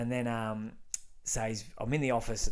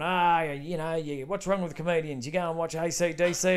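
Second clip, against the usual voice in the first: higher, louder mock rant from the speaker; radio rant impression; 6 semitones higher, 5 dB louder than usual. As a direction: mimic the host griping on air.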